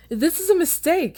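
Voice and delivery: high, loud desperate cry; panicked protest. Acted. Prisoner dragged off screaming, crying out in panic. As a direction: plead as they drag you off. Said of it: "dragged someone screaming from the back".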